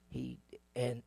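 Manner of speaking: usual speaking voice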